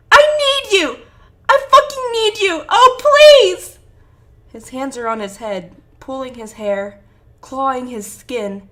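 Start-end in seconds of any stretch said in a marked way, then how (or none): 0.1-3.8 high, full-force anguished screaming; desperate pleading scream. A narrator's reading. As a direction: scream it, begging them to come back. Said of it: "he screams".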